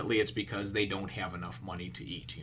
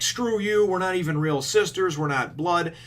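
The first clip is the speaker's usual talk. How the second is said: raised, high-pitched mock sisterly spat; retold angry outburst; 8 semitones higher, 4 dB louder than usual. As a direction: throw it out like an indignant kid, higher and louder. Retold sisters' quarrel over clothes.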